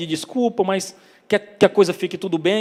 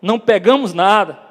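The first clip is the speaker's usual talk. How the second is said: mildly raised answering call; louder, lightly acted shout back; shouted reply; 3 semitones higher, 6 dB louder than usual. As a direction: call back across the water, half-shouted. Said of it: "O grito volta".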